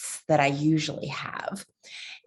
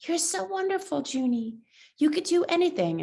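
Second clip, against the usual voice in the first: loving voice; 9 semitones higher, 3 dB quieter than usual. Acted. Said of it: "The other voice that's full of love and says".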